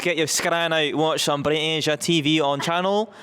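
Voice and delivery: Glasgow lilt, hosting; a Scottish presenter voice; Scottish accent. Pretend. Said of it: "like, Scottish".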